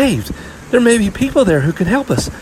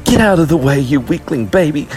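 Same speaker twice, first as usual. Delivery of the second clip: put-on high, loud angry girl; heated, high-pitched scolding; angry lashing out; 12 semitones higher, 3 dB louder than usual. A narrator's reading. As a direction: lash out at your little sister. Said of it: "she lashed out angrily at Murray".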